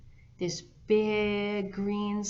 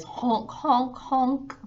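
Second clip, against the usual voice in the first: flamingo honk; 3 semitones higher, 5 dB louder, slower than usual. A narrator's reading. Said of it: "Flamingo's little baby ... says".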